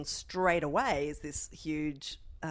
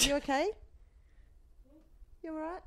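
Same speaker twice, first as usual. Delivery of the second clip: gentle concern; 11 semitones higher, faster than usual. Real, not acted. Mother checking on her sick young son, gentle concern. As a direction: ask tenderly, lifting the pitch.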